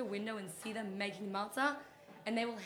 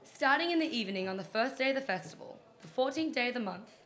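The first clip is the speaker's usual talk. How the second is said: dramatic reading; 4 dB louder than usual. Pretend. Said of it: "It's my dramatic reading".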